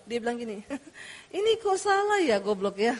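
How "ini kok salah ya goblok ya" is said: smiling insult. Retold or imitated. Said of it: "harus senyum kan".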